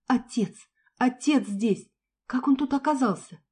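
surprised. Acted. Daughter shocked to hear father.

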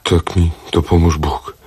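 plain, cowed echo; meek repeating. Acted. The captive repeats the final oath words, cowed. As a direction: say it back obediently.

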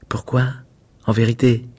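murmure doux, à peine voisé; voix basse et douce. A narrator's reading. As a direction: comme une pâquerette qui chuchote à sa voisine. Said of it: "d'une voix basse et douce". (à voix basse et douce, en chuchotant)

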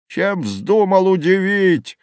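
high, drawn-out scornful jeer; angry roar. A narrator's reading. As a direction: heckle the poet from the crowd. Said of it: "ревели сердитые голоса".

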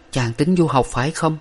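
lightly voiced worried girl; hint of a girl fearing he leaves; young woman's voice.

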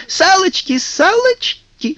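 very high, drawn-out playground cry; shrieking kikimoras. A narrator's reading. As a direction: squeal like sprites starting tag. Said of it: "кикиморы закричали".

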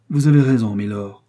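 deep disgust. A narrator's reading. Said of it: "avec un accent de profond dégoût".

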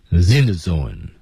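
"in the zone" run together, the s of "zebra's" sliding onto "in"; linked sounds. Shown as a demonstration. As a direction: say "in the zone" as "zin the zone". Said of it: "in之间是". (“in the zone”连读成zin the zone)

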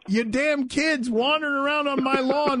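lightly voiced grumpy old man; a hint of a cranky old man. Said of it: "you sound like an old man".

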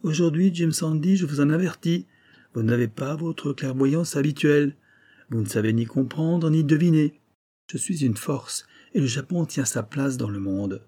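lightly acted threatening Japanese doctor; menacing proud doctor. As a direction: give a solemn warning to a rival. Kasuga warns the millionaire.

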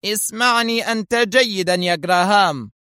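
a Mossad chief cowing a subordinate, harshly stern; harsh sternness. Acted. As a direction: put him firmly in his place. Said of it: "قال في صرامة قاسية".

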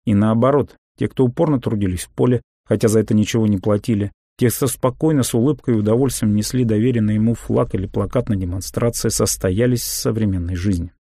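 plain reading voice

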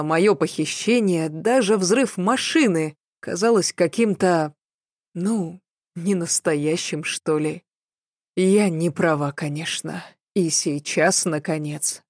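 usual speaking voice

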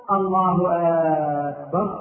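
drawn-out "آكبر" as if asking; questioning hamza on أكبر. Shown as a demonstration. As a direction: stretch the first vowel of "أكبر" into "aakbar". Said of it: "إدخال همزة الاستفهام على لفظ أكبر". (مد همزة أكبر كالاستفهام)

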